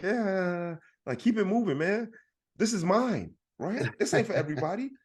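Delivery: high-pitched retold brush-off; mock protective warning. Father sending stranger away from his kid, mock territorial warning. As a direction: shoo the stranger along, claiming what is yours.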